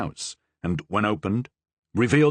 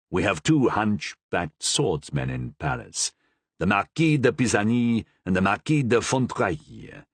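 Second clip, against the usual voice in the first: lightly voiced dry cardinal; 3 semitones lower than usual. The Cardinal names suspects.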